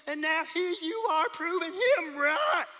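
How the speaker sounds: scolding outburst; rising frustrated scold; exasperated. Acted. Scolding sister for the plan.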